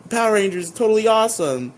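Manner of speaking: put-on high, fast gushing girl; a high, quick starry-eyed gush; Marge voice. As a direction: gush like a starstruck fan. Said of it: "she's like".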